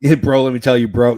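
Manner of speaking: lightly voiced bro-talking wrestling guy; a hint of a pushy bro voice; Vince Russo. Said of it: "Seriously, that's how he sounds".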